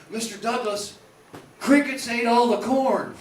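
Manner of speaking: dim farmhand voice. Retold or imitated. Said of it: "He would always say".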